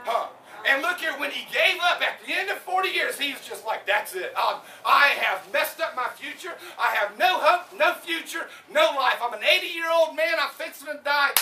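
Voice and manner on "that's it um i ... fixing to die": put-on loud despairing cry of a finished old man; despairing shout. Preacher voicing Moses, shouting his despair to the congregation. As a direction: shout it like you've given up on life.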